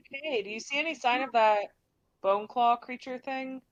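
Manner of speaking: mild call out. Acted. Twitch calls to Jen about the bone claw, mild yell. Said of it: "Twitch is gonna yell out to Jen".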